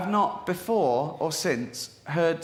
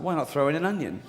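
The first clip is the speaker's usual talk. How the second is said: breezy cooking-show suggestion; offhand chef voice; casual recipe tone; faster than usual. Shown as a demonstration. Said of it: "like, a recipe or something".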